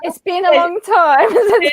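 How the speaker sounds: put-on high bubbly Valley Girl voice; Valley Girl accent. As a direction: keep the Valley Girl pitch up. Continuing the Valley Girl bit.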